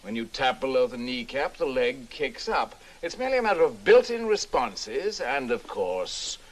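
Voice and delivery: emphatic public address, with lively rises; seminar lecture. Acted. Professor addressing gentlemen at a seminar, in an emphatic lecturing manner. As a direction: deliver it as a speech to a room.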